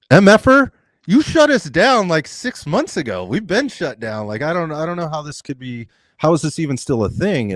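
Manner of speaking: high, furious disbelief; exasperated outburst. Retold or imitated. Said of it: "I'm like".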